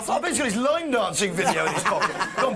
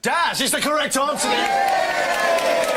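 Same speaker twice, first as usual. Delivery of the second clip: quiz host; 4 semitones higher, much slower than usual. Acted. Quiz host announcing answer.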